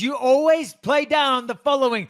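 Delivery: high, strained mock exclamation; hammed-up film-quote voice. Co-host teasing friend about his followers, hammed-up high film-quote voice. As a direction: stretch it out high and over-dramatic.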